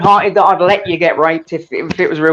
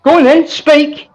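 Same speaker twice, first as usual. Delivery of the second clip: mock formal permission; 6 semitones higher, slower than usual. Real, not acted. Host mock grants permission.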